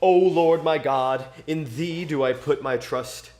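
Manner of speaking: scripture reading. Acted. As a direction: read it like a psalm at church. Reads a psalm aloud.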